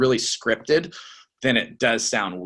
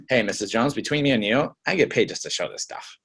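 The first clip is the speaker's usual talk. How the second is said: confiding. Shown as a demonstration. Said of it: "what your tone of voice is saying".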